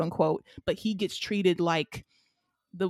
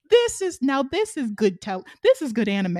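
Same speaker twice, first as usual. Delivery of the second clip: excited gushing; 3 semitones higher than usual. Retold or imitated. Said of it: "pacing around my room like".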